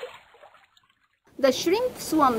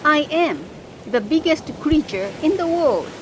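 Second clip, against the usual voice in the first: proud. Acted. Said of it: "answered with pride".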